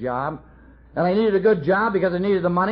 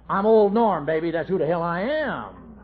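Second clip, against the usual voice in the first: swaggering boast. Retold or imitated. Drunk husband announcing himself to his wife with swagger. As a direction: puff up and announce yourself to her. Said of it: "You say".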